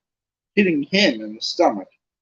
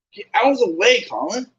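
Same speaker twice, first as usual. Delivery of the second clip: higher, louder angry snap; 9 semitones higher, 4 dB louder than usual. Acted. Harry tells Colin angrily to move, raised voice. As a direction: push him off angrily. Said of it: "said Harry angrily".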